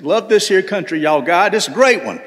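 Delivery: lightly put-on Southern twang; playful put-on Southern accent. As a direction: ham up a folksy Southern accent a touch. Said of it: "putting on my best Southern accent".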